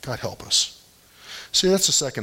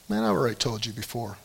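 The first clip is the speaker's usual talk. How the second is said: tired aside; 6 dB quieter, faster than usual. Retold or imitated. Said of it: "He, he didn't say man".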